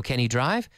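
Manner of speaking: "can" light, rising on "drive"; unstressed CAN. Shown as a demonstration. Teacher models the beginner question, "can" unstressed. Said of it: "We don't emphasize can".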